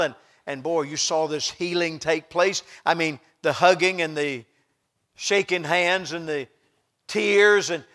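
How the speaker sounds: loud, rousing sermon delivery; fervent preaching. Real, not acted. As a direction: preach it with force, hitting the key words. Preaches the healing scene.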